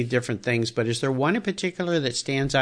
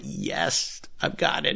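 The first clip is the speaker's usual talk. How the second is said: hushed whispered triumph; 2 semitones lower, 8 dB quieter, slower than usual. Pretend. Imagined triumph on getting the car.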